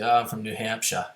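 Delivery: lightly imitated New Hampshire accent, r dropped; Rob's New Hampshire accent. Teasing Rob about his New Hampshire accent, mock accent. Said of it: "if you hear Rob's accent".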